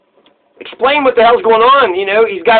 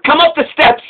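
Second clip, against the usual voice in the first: mock police order; 6 semitones higher than usual. Cop ordering someone up the steps, mock command. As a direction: act out a cop's order.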